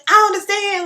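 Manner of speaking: high, loud, outraged whine; indignant disbelief. Retold or imitated. Telling the rep she doesn't understand the rejection, high and outraged. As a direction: replay the hurt and fury.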